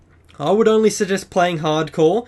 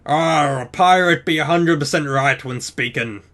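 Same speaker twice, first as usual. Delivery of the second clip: bad pirate accent. Tutorial host reading the pirate language option aloud, bad pirate accent. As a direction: read it in a poor pirate accent. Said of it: "worst pirate accent".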